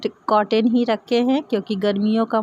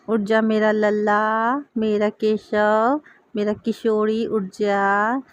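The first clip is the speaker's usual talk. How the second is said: tender waking call; slower than usual. Real, not acted. Mother waking her Kanha idol in the morning, slow and tender. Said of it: "मैं बड़े प्यार से ही अपने कान्हा को उठाती हूँ".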